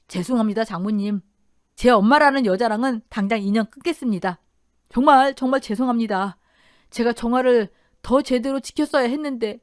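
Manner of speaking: anguished, broken apology; shattered, remorseful son-in-law. Acted. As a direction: apologise as a man falling apart. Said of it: "부서질 대로 부서진 소리였지요".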